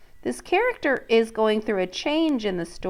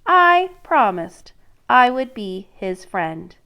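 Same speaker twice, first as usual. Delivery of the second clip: princess; 3 semitones higher, 4 dB louder, slower than usual. Acted. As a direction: refuse like a sulky princess. Princess's refusal in story.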